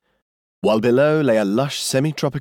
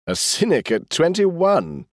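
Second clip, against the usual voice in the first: gasped; 8 semitones higher, slower than usual. A narrator's reading. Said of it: "he gasped at last".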